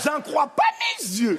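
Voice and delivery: drawn-out mock disbelief; mock astonishment. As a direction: play the astonished woman, slowly. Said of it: "quand elles sont étonnées". (incrédulité surjouée)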